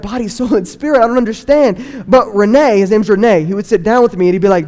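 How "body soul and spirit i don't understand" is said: higher, baffled question rising on spirit; confused teen. Retold or imitated. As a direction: repeat it back, lost and puzzled. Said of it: "and I'd be like".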